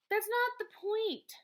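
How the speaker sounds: a teacher pushing back hard at his principal; firm objection. A narrator's reading. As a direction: cut him off, slow and firm.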